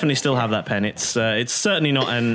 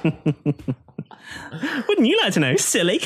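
slow coy tease; 4 semitones higher, much slower than usual. Acted. Aasimar teasing about pockets.

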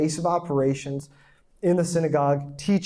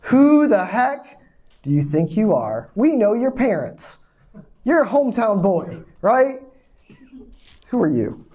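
indignant crowd; 4 semitones higher, 4 dB louder than usual. Retold or imitated. Crowd takes exception, mocked.

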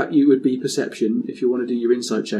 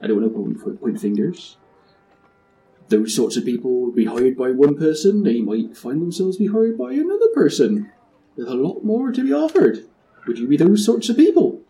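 sly West Country pirate angling for a deal; lightly hammed West Country rogue, rising as he tempts. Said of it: "he sounds like a West Country pirate".

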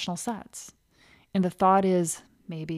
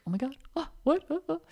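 jumpy; 7 semitones higher, 6 dB quieter, faster than usual. Retold or imitated. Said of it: "you're gonna be jumpy".

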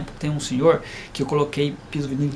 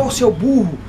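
put-on raised-voice parent telling off a child; lightly acted exasperated parent, higher and louder; mock scolding; 4 semitones higher, 6 dB louder than usual. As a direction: scold as a bad example.

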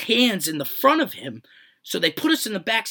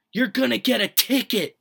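higher and louder, fed up; exasperated yell; 6 semitones higher, 3 dB louder than usual. Retold or imitated. To the panicking friend in the police car, a fed-up yell. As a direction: bark it at him, impatient.

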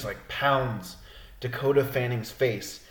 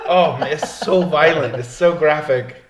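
laughing; 6 dB louder than usual. Real, not acted. Laughing about violent scene.

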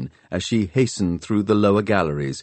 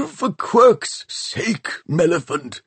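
put-on slow, much higher exasperated old man; irritated snap; 9 semitones higher, slower than usual. A narrator's reading. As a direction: bite off each word in annoyance. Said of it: "they heard him snap".

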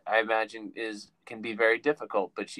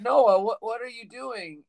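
put-on Korean accent; 11 semitones higher, 7 dB louder, slower than usual. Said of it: "I don't even wanna do a Korean accent".

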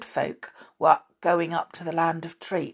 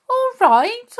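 put-on startled, much higher old man; 7 dB louder than usual. A narrator's reading. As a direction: jump back as if shouted at. Startled Saucepan replying to shouting.

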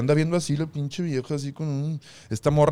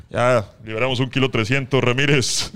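lower, louder gruff official voice; mock official; 4 semitones lower, 5 dB louder than usual. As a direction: play a deadpan airport agent reporting. Voicing an airport official.

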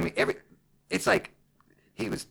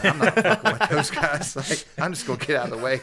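laughing and louder; 2 semitones higher, 7 dB louder than usual. Retold or imitated. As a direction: laugh through the excuse. Retold aside, laughing.

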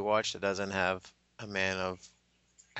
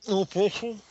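mock scolding; 10 semitones higher, 5 dB louder than usual. Scolding friend eating.

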